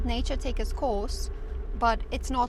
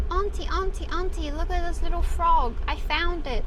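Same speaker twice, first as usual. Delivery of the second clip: put-on higher-pitched eager child calling out; excited little girl; 5 semitones higher than usual. Four-year-old calling her auntie over to a frog, excited. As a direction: imitate a small kid urgently showing off a find. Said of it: "this girl is four years old, and she's like".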